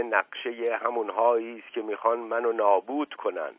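a touch of sharpness, the uncle scolding; mildly stern, telling him to stop joking; sharp tone. Acted. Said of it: "با لحن تندی گفت". (با لحنی کمی تند)

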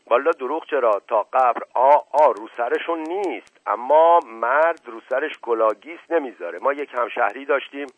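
loud manservant objecting with a tale; emphatic, garrulous servant voice; earnest tale-telling servant. Acted. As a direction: insist loudly, as one swearing to the truth. Narrator plays the servant Mashghasem objecting.

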